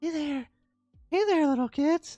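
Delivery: put-on old man voice, pitched very high. Showing how the old grandpa from Family Guy sounds, Family Guy old grandpa voice. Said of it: "the old guy with the high pitched voice".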